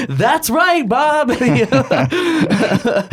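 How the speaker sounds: high, laughing cartoon character; goofy cartoon voice. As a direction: squeak it out like a cartoon. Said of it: "this is how I'm picturing it".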